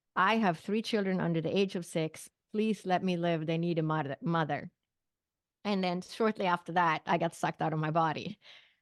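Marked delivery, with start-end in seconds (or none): none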